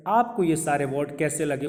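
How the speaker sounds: ordinary talk, nothing marked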